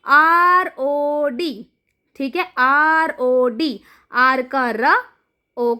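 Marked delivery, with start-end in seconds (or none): 0.1-3.8 slow, letter by letter; slow teacher spelling-out. Shown as a demonstration. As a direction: spell it out slowly for the class. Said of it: "अगला देखिए".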